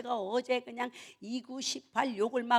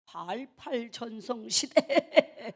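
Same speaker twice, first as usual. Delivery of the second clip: drawn-out punchline; much slower than usual. Real, not acted.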